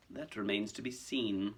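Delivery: slow, soft menace; nasty smile. Acted. Malfoy answering Fudge, nastily smug. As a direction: savour it through a smirk. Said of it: "with a nasty smile".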